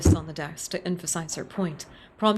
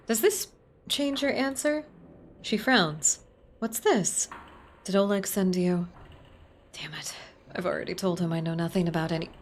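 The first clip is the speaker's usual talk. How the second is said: a prim librarian, startled and defensive; lightly voiced startled librarian. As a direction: voice the wary librarian.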